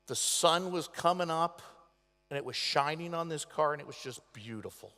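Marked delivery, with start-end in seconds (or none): 3.7-4.9 hushed awe. Real, not acted. Awed memory of the car.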